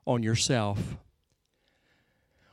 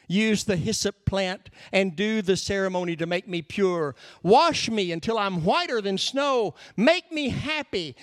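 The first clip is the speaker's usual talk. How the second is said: pleading prayer, rising high; begging; 3 semitones higher than usual. Acted. David praying to be cleansed, begging. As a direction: build to an imploring cry. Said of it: "he's begging all the way through".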